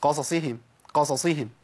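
"قصصهم" with short vowels, two Sads like one split; clipped vowels mistake. Shown as a demonstration. Teacher repeating the common mistake, snatched vowels. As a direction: run the ص sounds together in "قصصهم". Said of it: "كأنهم صاد واحدة بس قسمتها نصين".

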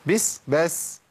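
short, quick hiss on "بس"; "بس" with a clipped, natural s; calling a cat. Acted. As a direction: shoo a cat with a brief "بس". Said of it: "لو شفت قطة بتقول لها إيه؟".

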